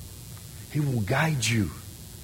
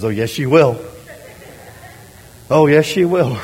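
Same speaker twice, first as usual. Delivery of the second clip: mock insistent wife; 2 semitones higher, 6 dB louder than usual.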